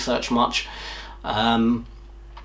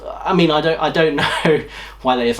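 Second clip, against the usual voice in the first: laughing; 3 semitones higher than usual. Real, not acted. Laughing at own confusion.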